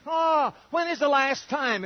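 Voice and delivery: slow, loud calling voice; the voice of romance calls out across the room. Acted. Preacher voicing romance calling, a loud slow call.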